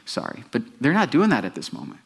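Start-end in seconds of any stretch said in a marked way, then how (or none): 0.0-0.4 sincere apology. Shown as a demonstration. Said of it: "you admit that what you did was wrong".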